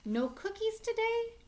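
hammed-up shocked whine; mock outraged child. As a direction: squeal it like a child denied a treat. Dinosaur hears no cookies.

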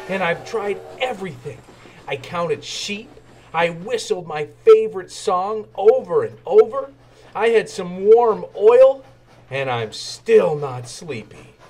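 lightly voiced young engine, restless; young engine pleading. Thomas pleads, can't sleep.

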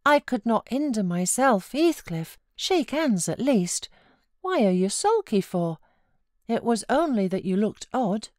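put-on coaxing girl. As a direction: coax him out of sulking. Cathy coaxing sulky Heathcliff.

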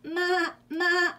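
high, loud two-beat bleat; goat bleating. A narrator's reading. Reader voicing the goat for children, bleating. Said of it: "said the goat".

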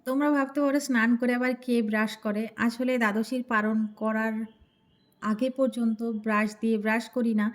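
talking with a toothbrush in mouth; while brushing teeth. Real, not acted. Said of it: "এখন brush করছি".

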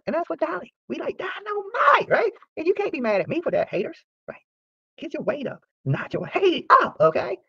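high, slow, shouting hype; hyped shout. Real, not acted. Vlogger hyping himself at haters, high shouted taunt.

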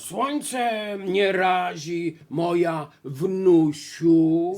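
slow, loud rasping wolf; hoarse wolf. Acted. Wolf posing as grandma to the girl, hoarse drawl. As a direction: rasp it out very slowly. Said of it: "zachrypiał wilk".

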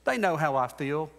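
high mock brush-off, jumping up on "they know"; dismissive dad. Preacher mocking a dad's excuse, high and dismissive. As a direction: play the dad who shrugs it off. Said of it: "You can't just say".

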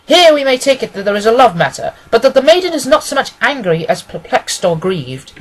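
lightly voiced analytical detective. Detective reading the symptoms of a hesitant client, lightly voiced and confident. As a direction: reason it out with confident relish. Holmes deducing the visitor's trouble.

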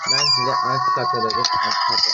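high yelp of frustration; exasperated yelp. Real, not acted. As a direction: squeal it in exasperation. Exasperated at game.

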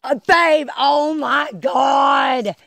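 calling out to her in a thrilled rush; excited. Real, not acted. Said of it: "you hear my excitement".

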